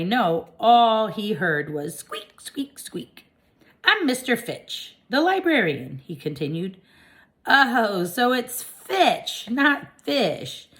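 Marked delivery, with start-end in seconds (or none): 2.0-3.3 squeaky hamster. A narrator's reading. Hamster's words heard as squeaks. 3.8-6.0 librarian. A narrator's reading. Librarian introduces himself. 7.5-10.7 surprised realization. A narrator's reading. Hamster realises the name.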